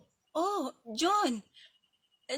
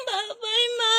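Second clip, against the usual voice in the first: high call; 10 semitones higher, 8 dB louder, slower than usual. Acted. Child calling goodbye.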